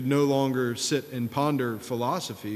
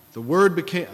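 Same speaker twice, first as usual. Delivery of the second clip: louder, higher mock yell in an attempted Scottish accent; imitated professor's yell; 5 semitones higher, 5 dB louder than usual. Imitating his Scottish-theology professor yelling out in class, mock yell. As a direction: call it out like a zealous theology professor. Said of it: "he would yell out".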